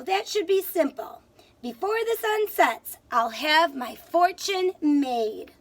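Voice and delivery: hatch the plan with rising glee; Tom's excited thoughts. Acted. Teacher voicing Tom plotting to catch the leprechaun, lightly excited. Tom's scheming lines voiced.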